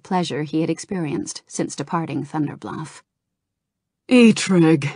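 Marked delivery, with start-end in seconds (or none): 4.1-4.8 warm. A narrator's reading. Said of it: "he said warmly".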